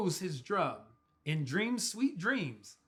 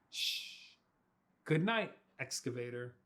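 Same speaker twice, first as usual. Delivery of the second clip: whispering; 8 semitones lower, 7 dB quieter than usual. Acted. Bedtime goodnight.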